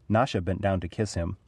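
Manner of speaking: usual speaking voice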